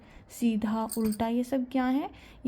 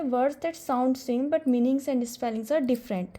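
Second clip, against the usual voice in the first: slow, clear word by word dictation; much slower than usual. Shown as a demonstration. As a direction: dictate the definition slowly for notes. Teacher dictating definition slowly. (धीरे-धीरे परिभाषा लिखवाना)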